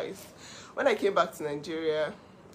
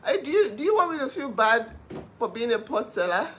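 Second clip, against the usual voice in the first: laughing retort; 4 semitones higher, 5 dB louder than usual. Retold or imitated. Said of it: "I'm like".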